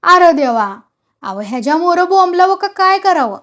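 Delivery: storyteller's moderately shrill protest. A narrator's reading. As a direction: cry out in screechy dismay. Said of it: "चिरक्या आवाजात म्हणाला".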